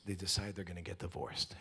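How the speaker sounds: hushed, unvoiced storytelling; telling the couple's story in a whisper. Real, not acted. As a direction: drop to a whisper as if sharing a secret. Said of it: "whispered story aside".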